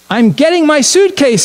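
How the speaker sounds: put-on high, eager little girl's cry; excited exclamation. Sarah eager to pack for the Messiah, excited high voice. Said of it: "Sarah exclaimed".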